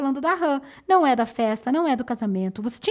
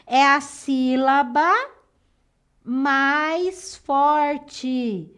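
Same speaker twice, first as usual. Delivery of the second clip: slow emphasis; much slower than usual. Real, not acted. Teacher defining stressed syllable slowly.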